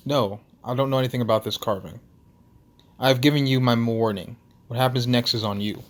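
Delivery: put-on composed Russian-accented denial; Nikolai. Stunned Russian recomposing himself to give final warning, Russian accent. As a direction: close the matter in an amateur Russian accent. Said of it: "clears his throat and composes himself".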